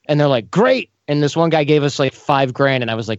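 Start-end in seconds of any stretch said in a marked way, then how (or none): 0.5-0.9 high, bright mock-eager "Great"; eager agreement. Client happily accepting a hundred dollars an hour, eager. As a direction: imitate a client jumping at the offer.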